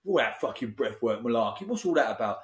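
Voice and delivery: low, dismissive builder talk; imitated gruff scoffing at nonsense; ruggedy builder friends. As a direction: lightly mimic a sceptical builder mate. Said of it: "That's exactly how they speak".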